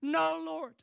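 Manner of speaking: high, loud cry to God; desperate cry. Shown as a demonstration. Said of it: "Have you ever felt like that?".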